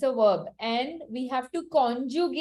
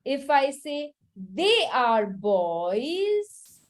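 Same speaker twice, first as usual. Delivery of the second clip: slow setup; much slower than usual. Shown as a demonstration. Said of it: "sets up the example".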